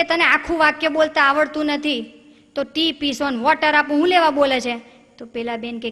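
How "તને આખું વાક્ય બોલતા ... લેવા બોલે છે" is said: irritated husband. Retold or imitated. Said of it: "એમના હસબન્ડને બહુ ગુસ્સો આવે".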